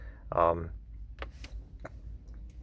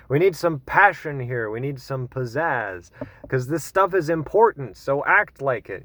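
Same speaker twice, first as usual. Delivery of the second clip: mock rallying; 3 semitones higher than usual. Vlogger mocking activists who want anger, mock rallying cry. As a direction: parody an activist demanding passion.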